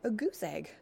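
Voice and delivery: even, otherworldly robot voice. Acted. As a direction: speak like a gentle machine. Robot answers.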